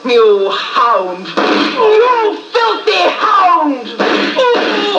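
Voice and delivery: slow, venomous, rising at the end; seething contempt. Acted. The widow cursing Milverton before she shoots. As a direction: spit the insult as you pull the trigger.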